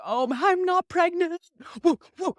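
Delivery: put-on teen celebrating the negative test, high and loud; relieved cheer. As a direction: let out a high relieved whoop.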